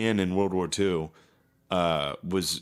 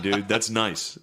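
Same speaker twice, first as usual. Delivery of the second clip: ordinary delivery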